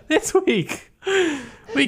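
trying not to crack up; stifled giggles. Real, not acted. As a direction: voice pops up high, fighting a laugh. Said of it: "so I'm trying not to laugh".

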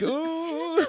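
high teasing ooh; mock kids' ooh; kids going ooh. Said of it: "They're always like".

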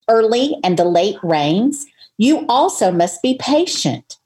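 measured Bible reading voice; scripture reading. Acted. Reading James aloud to listeners, measured scripture read. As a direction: read the verses out steadily, like church.

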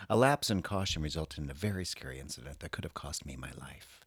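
soft sultry reading voice; sultry perfume ad. Acted. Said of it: "read that with a sexy, sultry voice".

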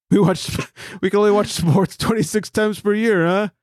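badly faked Jersey-meets-Boston accent; mock Jersey accent. Host plays a Jersey guy defending his state, mock accent. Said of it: "Sounds like our Boston accent".

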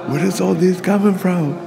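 amazed question. Retold or imitated. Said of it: "I go".

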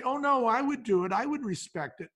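a lightly mocking take on people swearing they'd do it; mock eager promise. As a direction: mimic someone's overeager promise. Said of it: "People will say".

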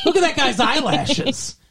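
imitating women fawning over men; mock swooning over a plain guy; mock gushing admirers. Mimicking women who invent things to admire, mock gushing.

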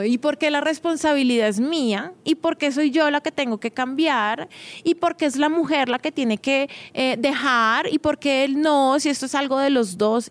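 a hint of offended complaining woman; indignant follower. Follower writing in to object to the advice, lightly voiced indignant complaint.

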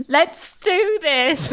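slow, flat-faced forced cheer; dead smile. Acted. Dreading character forcing courage before entering, slow with a dead smile. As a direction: drag it out through a lifeless smile. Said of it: "with a very dead smile".

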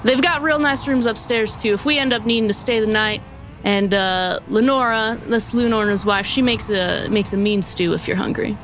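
lightly voiced folksy driver; a hint of a cowboy coach driver; stagecoach driver.

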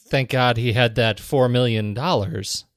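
dry sarcastic aside. Acted. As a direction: say it with a sarcastic edge. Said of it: "that was me being sarcastic".

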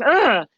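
mock-furious, wordless groan; rage-filled groan. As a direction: let out a retold growl of frustration. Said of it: "like, rage-filled".

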